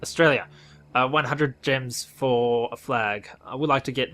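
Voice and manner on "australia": louder, indignant stress on "Australia"; offended. Real, not acted. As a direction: say "Australia" with mock outrage. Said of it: "I'm offended".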